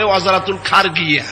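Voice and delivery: অজারাতুল খারগিয়া with a hard g for j; the Cairo way, খারগিয়া; Egyptian pronunciation. Shown as a demonstration. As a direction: say খারগিয়া, g where Arabic has j. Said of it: "জিম গ দিয়ে উচ্চারণ করে".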